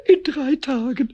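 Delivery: tearful whine. Acted. Pumuckl keeps crying.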